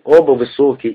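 ordinary delivery

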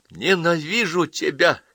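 high, slow, drawn-out hatred; hissed hatred. Acted. Girl to her mother after a slap, hissed hatred. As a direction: spit it out slowly, hissing. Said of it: "прошипела девочка".

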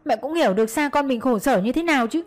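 high-pitched, insistent begging; desperate pleading. A narrator's reading. Daughter-in-law begs to see her son for a minute, pleading. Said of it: "van xin mẹ".

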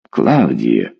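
a deep, booming call of her name. A narrator's reading. Husband cuts his wife off with a booming call. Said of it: "зычно ухнул муж".

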